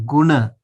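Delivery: "guna" with a closed, short a; closed-vowel "guna". Shown as a demonstration. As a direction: say "guna" with the a kept tight and closed. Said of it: "A is closed".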